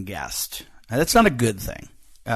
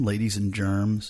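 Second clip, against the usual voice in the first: corny emcee; 2 semitones lower, slower than usual. Pretend. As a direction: croon the old gag in a put-on voice. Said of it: "Remember that one?".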